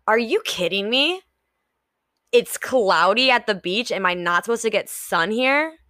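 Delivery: annoyed, whining about cloudy weather; whiny complaining. Shown as a demonstration. Complaining to herself about a cloudy beach, whiny. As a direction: sulk like a let-down tourist.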